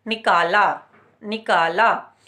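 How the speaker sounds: निकाला with the ee held long; short ee sound. Shown as a demonstration. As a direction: say निकाला slowly, stretching the vowel. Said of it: "शब्द देखेंगे".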